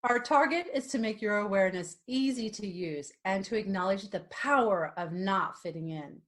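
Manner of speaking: scripted promo delivery, punched key words; podcast outro read. Acted. Host telling listeners the show's aim, outro read. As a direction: read it like a show slogan.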